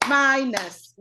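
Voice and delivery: "minus" stretched into two syllables; "minus" said slowly and distinctly; slow clear demonstration. Shown as a demonstration. Spells out syllables for example word.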